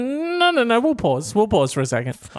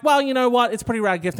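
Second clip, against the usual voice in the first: lightly voiced, higher girlfriend; 7 semitones higher than usual. Girlfriend deciding to keep the gift, light higher voice. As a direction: pitch it up to play the girlfriend.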